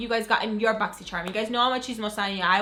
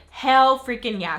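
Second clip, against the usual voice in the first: hyped exclamation; 3 semitones higher, 7 dB louder, slower than usual. Retold or imitated. I'm like.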